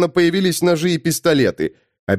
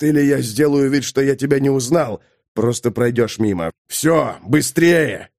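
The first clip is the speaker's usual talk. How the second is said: changed voice. Acted. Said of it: "сказал совсем другим голосом".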